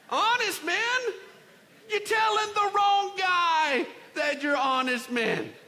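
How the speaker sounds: loud, high scornful outburst; incredulous outrage. Acted. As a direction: throw their claim back in an indignant shout. Joseph scoffs at brothers' claim.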